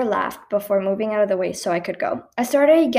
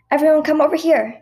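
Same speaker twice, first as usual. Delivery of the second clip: calling out; 7 semitones higher, 6 dB louder than usual. A narrator's reading. Guide calls group.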